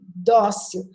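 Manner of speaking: dócil slow, weight on the dó; penultimate stress. Shown as a demonstration. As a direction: stretch the first syllable of dócil. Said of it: "falei dócil". (dócil devagar, com o dó forte)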